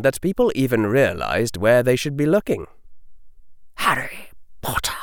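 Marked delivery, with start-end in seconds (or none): 3.8-4.9 cold whisper. A narrator's reading. Lucius answers coldly.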